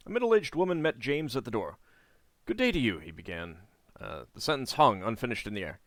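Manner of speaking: steady storybook read-aloud; story narration. A narrator's reading. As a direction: read the quest text like a novel. Reading the game's story text.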